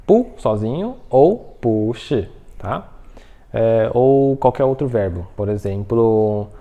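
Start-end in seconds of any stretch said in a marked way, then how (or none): 0.1-0.3 "Pu" alone, short and high; standalone intonation. Shown as a demonstration. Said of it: "regra de entonação". 1.6-2.3 "pu shi" with "pu" drawn out and rising, "shi" falling; changed intonation. Shown as a demonstration. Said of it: "regra de entonação".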